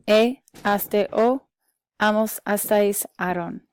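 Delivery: "e, aste, o" said distinctly, item by item; model for repetition. Shown as a demonstration. Teacher has class repeat endings, model for repetition. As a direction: recite "amos, astais, aron" as separate endings to echo. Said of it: "Repeat after me".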